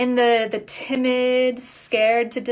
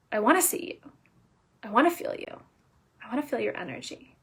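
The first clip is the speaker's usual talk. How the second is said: tender; 5 dB quieter, faster than usual. Real, not acted. Intimate fading repetition.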